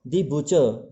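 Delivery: butcher said as "BUH-chuh", no r; silent final r. Shown as a demonstration. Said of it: "बुचर नहीं बोलते हैं इसको". (butcher के अंत का र बिना बोले)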